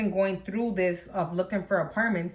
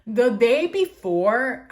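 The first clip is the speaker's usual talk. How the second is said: laughing, slowed; 4 semitones higher, 6 dB louder, much slower than usual. Real, not acted. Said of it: "I'm laughing, but it's not funny".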